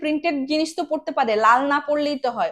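plain

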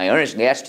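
rapid speech, words running together. English lesson on how americans speak quickly, fast, words run together. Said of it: "빨리 말하면 이것만 들려야 돼요. ... 이렇게. 빨리 얘기하면".

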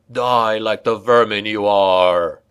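savage snarling vampire voice. Reading a story aloud, voicing the vampire as he springs forward: snarling vampire voice. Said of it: "the vampire snarled".

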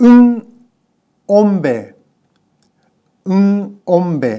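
loud "ng", broken off hard, separated from "ombe".

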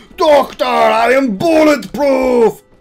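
terrible heavy impression. Addressing the doctor in a terrible, heavy impression. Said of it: "that's a terrible, heavy impression".

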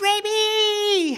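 very high, alarmed, drawn-out panicked shout. Speaker retells how Coral called out to a little girl on the couch, retelling a panicked shout. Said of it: "it was panic".

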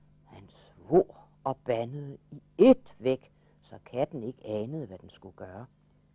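plain

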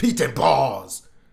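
very loud, rough, overly emphatic intense outburst. Correcting a name while introducing a reaction video: a little intense. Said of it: "I got a little intense there".

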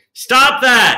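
shrill, very loud, high-pitched shout. Showing a healthy yell at a noisy next-door neighbor through the wall: healthy yell at a neighbor. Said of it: "shake your finger at the wall and say".

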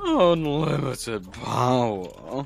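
put-on loud, drunk-sounding, out-of-energy voice. Mocking how Castle's late-night scream sounded: imitating Castle sounding drunk. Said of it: "He sounds drunk".

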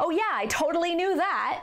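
high, emphatic, defiant sarcasm. Explaining a phrase's sentiment, giving an example in a sarcastic tone. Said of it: "it can be kind of a sarcastic".

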